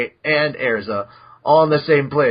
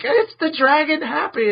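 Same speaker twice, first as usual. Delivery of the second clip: higher, proud announcement; mock proud; 13 semitones higher than usual. Natsu showing off his hatchling to the guild, higher, proud. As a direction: present it like a proud new dad, higher.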